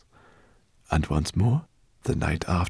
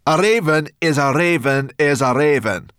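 loud, raised brownie voice, irritated; angry growl; 9 semitones higher, 9 dB louder than usual. A narrator's reading. Brownie dismisses the homunculus's fear of ravens, angry growl. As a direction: growl back angrily as a brownie. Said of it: "Sorrel growled at him angrily".

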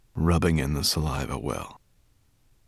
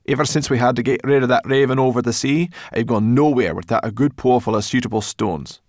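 gruff brownie voice; 6 semitones higher, 6 dB louder than usual. Acted. Sorrel explains the stones.

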